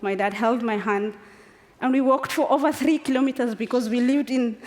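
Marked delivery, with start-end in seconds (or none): 1.8-4.7 laughing. Real, not acted. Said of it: "I'm laughing now".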